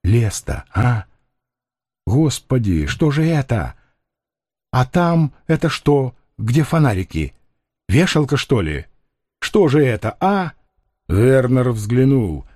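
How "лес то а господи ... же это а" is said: a lightly voiced frightened gypsy, muttering; wandering, half-dazed questions; bewildered convict. Condemned man asks his comrades, lightly voiced and confused.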